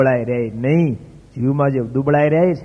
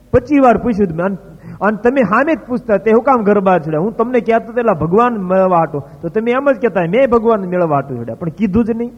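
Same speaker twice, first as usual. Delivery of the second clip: much higher and louder, overjoyed; rapturous devotee's cry; ecstatic outcry; 6 semitones higher, 4 dB louder than usual. Retold or imitated. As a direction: cry out, beside yourself with joy at seeing God. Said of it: "Mohandas તો ગાંડો બીનો".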